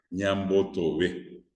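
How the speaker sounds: Ñambotobe said slowly, syllable by syllable; slow Guaraní word. Shown as a demonstration. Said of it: "Ñambotobe es negar".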